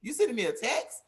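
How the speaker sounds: mock outrage at getting a text; imitating her own disbelief; incredulous disbelief. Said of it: "And I'm like".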